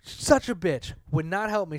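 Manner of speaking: real rising irritation while venting; worked up, punching the swear words; getting angry. Real, not acted. Ranting to co-host about a phone agent, getting angry. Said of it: "I'm sorry if I'm getting angry".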